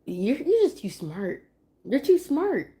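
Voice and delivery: rising high cooing praise; doting praise. Real, not acted. Mom cooing praise at her clever toddler.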